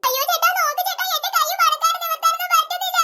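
mock pained whine; faked distress. Girl pretending her hand won't move, mock pained whine. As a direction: plead as if badly hurt, overacting. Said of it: "എന്നെ acting ആ കൊച്ച്".

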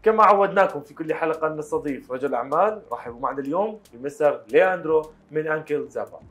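brisk, bright TV presenter opening; fast Arabic announcer read; TV host intro. Acted. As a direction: rattle off the show's welcome like a host. Host opens TV show in Arabic.

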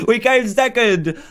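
slow, laughing through it. Real, not acted. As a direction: chuckle out the result. Laughs after losing the race.

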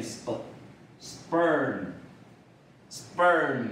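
"sperm" slowly, P unaspirated after the S, like sb; slow model reading of "sperm" with a softened P; SP sound shown. Shown as a demonstration. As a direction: show "sp-", then draw out "sperm". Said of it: "S P我会念sp".

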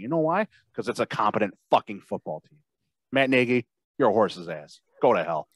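wrestling promo. Acted. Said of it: "the speaker cuts a promo on Matt Nagy".

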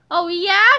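shouted challenge. A narrator's reading. Police chief challenging the superhero, shouting. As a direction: throw it back as a challenge. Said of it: "shouted the police chief".

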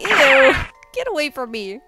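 high, loud squeal of disgust; grossed-out yelp. Real, not acted. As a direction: recoil from it loudly. Recoils from "Hi, daddy.

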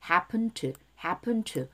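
HAPPEN TO linked with the past-tense D swallowed; "happen to" run together lightly; weak D. Shown as a demonstration. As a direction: drop the D and glide into TO. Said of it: "드 발음 약하게".

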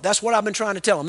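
put-on eager teen backing the preacher up; insistent. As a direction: insist you've been saying this all along.

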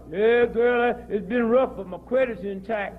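lightly voiced self-satisfied talker; mock bragging. Mocking people proud of credit despite rough times, light mock brag. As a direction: imitate someone boasting to a friend. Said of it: "niggas walk around and go".

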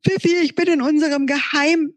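a yawning friend radioing for help; Momo's voice. Acted. Momo voice over walkie-talkie.

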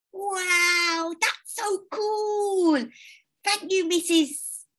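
put-on high, slow delighted child; excited. A narrator's reading. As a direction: gasp with wonder. Child thrilled by gift.

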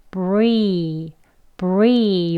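bree run together with a long ee. Shown as a demonstration. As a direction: blend bree smoothly, strong on the sound. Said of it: "쭉 이어서 발음할 건데요". (bree를 강하게 쭉 이어서)

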